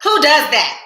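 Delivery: high, loud incredulous question; who does that, really. Real, not acted. Laughing at herself.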